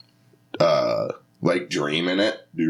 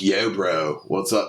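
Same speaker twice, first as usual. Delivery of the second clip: put-on Delco accent slipping into surfer; surfer-sounding Delco accent. Comic recalling a failed accent bit, surfer-like Delco. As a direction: try Delco but drift beachy. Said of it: "You sound like a surfer now".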